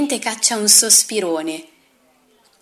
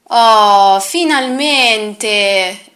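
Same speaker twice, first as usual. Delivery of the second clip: relieved exclamation; 5 dB louder, much slower than usual. Acted. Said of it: "esclama la signora Lisa".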